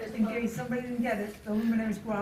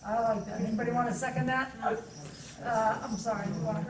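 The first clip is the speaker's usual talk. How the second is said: muffled by a face mask; speaking through a mask. Real, not acted. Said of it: "it's the mask".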